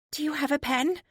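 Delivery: high, tentative question; high and hesitant; surprisingly high voice. Acted. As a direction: ask it small and high. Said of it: "Her voice is surprisingly high".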